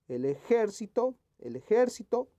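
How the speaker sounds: ejército with JÉR high and punched; stress on second syllable. Shown as a demonstration. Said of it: "que esté correctamente escrita".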